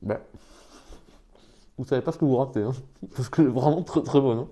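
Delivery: talking through a mouthful; words round a bite of food; chewing while talking. Real, not acted. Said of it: "Je parle pas la bouche pleine".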